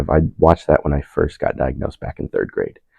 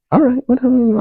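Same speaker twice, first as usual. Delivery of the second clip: mock dismissive. High dismissive reply.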